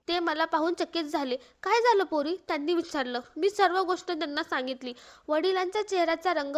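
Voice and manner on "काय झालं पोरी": louder startled question; alarmed father. Acted. Father seeing his daughter emerge, alarmed and loud. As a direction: ask it out in sudden worry.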